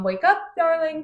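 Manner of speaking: lightly acted soothing voice, pitched high; high, gentle mock lullaby tone; tranquil coaxing. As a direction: coax a sleeper awake, imitating calm. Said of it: "tranquil, calm".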